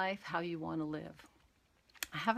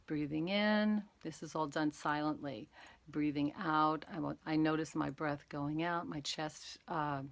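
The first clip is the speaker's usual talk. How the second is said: guided meditation demo. Shown as a demonstration. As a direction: talk them through each breath, unhurried. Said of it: "So I'll do this a little bit".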